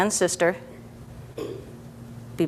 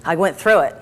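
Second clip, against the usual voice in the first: quick puff out, then relieved; acted relief. Therapist voices a child's feeling after getting through, acted relief. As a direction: let out a puff of mock relief. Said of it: "positive, bigger relief feeling".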